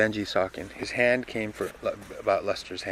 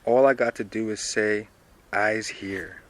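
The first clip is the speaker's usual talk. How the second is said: louder Dilsey line; 5 dB louder, slower than usual. Acted. First reading of Dilsey's line.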